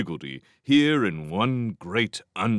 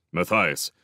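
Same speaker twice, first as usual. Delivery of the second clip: ordinary delivery, nothing marked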